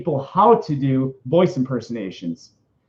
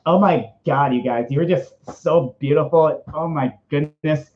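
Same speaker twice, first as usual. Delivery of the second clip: lightly camp, gushing delivery; put-on flamboyant gushing. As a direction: gush with a touch of flamboyance. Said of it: "got into my really flamboyant".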